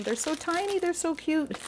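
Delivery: high, cute gushing; cooing. Real, not acted. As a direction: coo over something tiny and adorable. Gushing over tiny treats.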